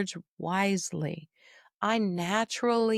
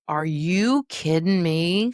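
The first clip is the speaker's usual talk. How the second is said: slow, louder, disbelieving "Are you kidding me?"; incredulous; 5 dB louder, slower than usual. Retold or imitated. Daughter reacting badly to mother's complaint, incredulous. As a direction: push back in disbelief. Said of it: "And I said".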